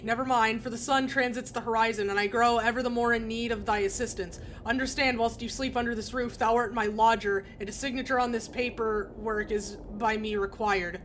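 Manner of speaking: lightly voiced old-fashioned speech; a hint of stage Shakespearean; archaic landlord. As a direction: read it like a stiff Elizabethan landlord. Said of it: "When did you start talking like this?".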